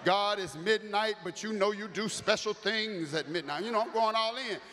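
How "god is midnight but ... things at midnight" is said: mild preaching. Retold or imitated. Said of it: "I started preaching on the phone now".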